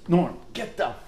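high, stretched-out sideline holler; mock yell, pitch climbing; retold yell. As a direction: imitate someone yelling across a football field. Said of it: "he yells".

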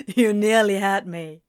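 loud, amused disbelief; laughing. A narrator's reading. Friend thinks he was nearly fooled, laughing. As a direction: brush it off between laughs. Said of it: "when Gabriel continued laughing".

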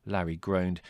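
ordinary delivery

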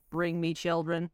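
slow, eerie animatronic threat; slow sinister robot command; creepy robot voice. Acted.

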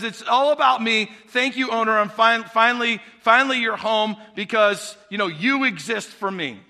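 lightly voiced smug cat; a hint of the entitled cat; cat telling the owner it exists to serve; self-centred cat. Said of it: "the cat really basically says".

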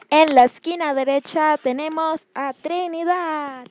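booming fight announcer; boxing ring announcer. Acted. Announcing fighters before the match.

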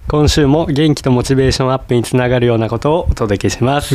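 stuffy nose from a cold; nasal voice. Real, not acted. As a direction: talk through a blocked nose. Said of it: "どこが元気なん、お前。".

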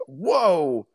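long, drawn-out retold gasp of amazement; taken aback. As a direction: imitate stunned onlookers. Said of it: "They were even taken aback by it".

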